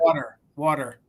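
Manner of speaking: water as WAH-der, t softened to d; regional water. Shown as a demonstration. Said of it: "around here, it's water".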